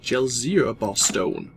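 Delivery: slow, unsure try at the name Gelzir, rising doubt; unsure naming. Real, not acted. Player guessing the stone's name, unsure and slow. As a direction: sound out Gelzir as if checking the label. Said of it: "was it".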